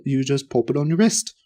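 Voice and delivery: understated, matter-of-fact sales pitch. Retold or imitated. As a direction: explain it as if nothing needs explaining. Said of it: "Very matter-of-factly".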